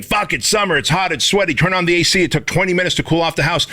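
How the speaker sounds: high mock-whiny complainer; whiny complaint. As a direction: whine it like a pampered homeowner. Mocking a spoiled modern complaint.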